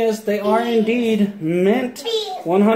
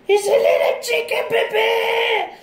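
laughing. Real, not acted. Laughing reveal.

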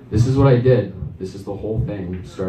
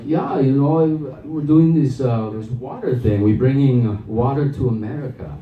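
put-on hesitant, improvised Swedish salesman accent; 3 semitones higher than usual. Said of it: "I have to stay in character".

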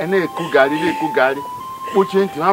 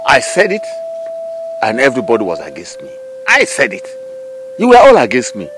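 angry reproach. Acted. Elder blaming the family.

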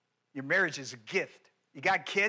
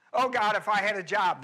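mock whining prayer; 2 semitones higher, 4 dB louder than usual. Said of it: "whine and cry and complain".

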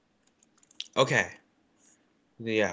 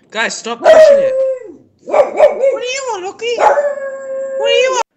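exasperated high shout; 6 dB louder than usual. Real, not acted. Gamer yelling at Loki and the others, high whiny yell. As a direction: demand an answer, fed up.

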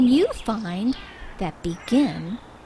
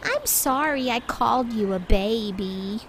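sheepish apology; 6 dB quieter than usual. Acted. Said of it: "said Badger".

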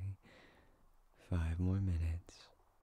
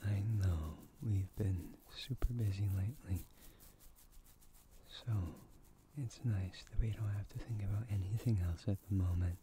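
ASMR whisper. Acted. Whispering to a cuddled partner about busy days. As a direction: breathe the words right into the ear.

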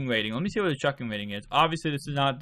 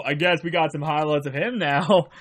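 normal talking voice

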